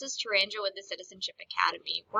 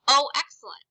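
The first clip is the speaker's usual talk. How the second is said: excited; 4 semitones higher, 6 dB louder than usual. Shown as a demonstration.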